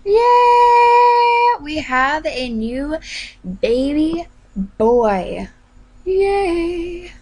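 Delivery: high, loud celebratory announcement; joyful cheer. Real, not acted. Player announcing the new baby boy, joyful cheering. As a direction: open on a long, high whoop of joy.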